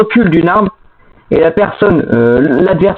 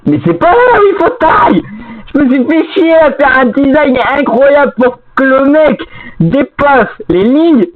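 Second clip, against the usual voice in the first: exasperated; 5 semitones higher than usual. Real, not acted. Scolding teammate over game rules.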